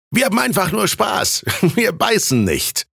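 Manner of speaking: high, jolly reveller; reassuring young man. A narrator's reading. Student telling Thies it's just fun, high jolly reassurance. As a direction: put him at ease, pitched well up.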